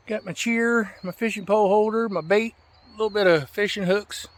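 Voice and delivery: excited checklist for the camera; hyped up. Real, not acted. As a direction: pump up the trip with a big bright voice. Hyping up the fishing trip.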